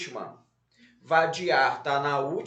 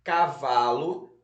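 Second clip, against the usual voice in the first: "Cavalo" read slowly with a rising list tune; word dictation; 2 semitones lower, 3 dB louder, slower than usual. Shown as a demonstration. Teacher repeats the word list for pupils, "Cavalo" in careful dictation. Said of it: "vamos lá repetir as palavras".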